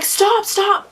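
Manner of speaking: retold yell. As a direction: bark it across the road. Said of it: "I'm like".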